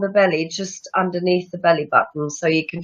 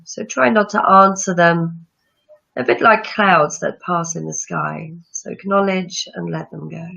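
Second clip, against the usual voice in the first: calm breathing-practice guide; guided meditation. Acted. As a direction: ease listeners into calm breathing.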